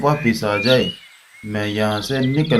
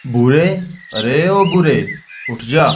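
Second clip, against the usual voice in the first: calling out; 3 semitones higher than usual. Acted. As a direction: shout his name across to him. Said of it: "उसे जगाने के लिए आवाज लगाता है".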